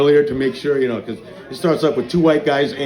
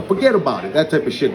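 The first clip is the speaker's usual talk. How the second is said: Brooklyn accent. Shown as a demonstration. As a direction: put on a Brooklyn wiseguy accent. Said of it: "my Brooklyn accent".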